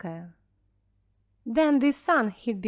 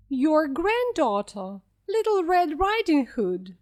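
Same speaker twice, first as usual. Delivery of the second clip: put-on wolf faking the girl's voice, pitched up; squeaky wolf; 5 semitones higher, 4 dB louder than usual. A narrator's reading. Wolf at grandmother's door pretending to be the girl, squeaking. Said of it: "squeaked the wolf".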